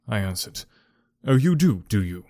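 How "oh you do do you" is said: a lightly read sneering snarl. A narrator's reading. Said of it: "he snarls".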